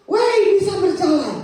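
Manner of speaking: high, loud "look at me" yell; excited shout. Retold or imitated. Patient who just got up and walked, excited shout. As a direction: call it out to the whole house. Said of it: "saya teriak".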